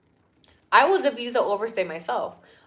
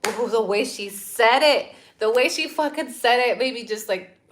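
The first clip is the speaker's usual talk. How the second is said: disgusted; 6 dB louder than usual. Real, not acted. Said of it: "she disgusted me".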